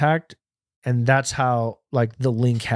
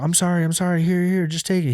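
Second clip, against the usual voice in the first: mock pleading; 6 semitones higher than usual. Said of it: "I was like".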